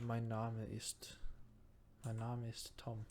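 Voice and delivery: slow beginner German "Mein Name ist Tom"; basic German. Shown as a demonstration. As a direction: sound it out like a first German lesson. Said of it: "I know some rudimentary stuff".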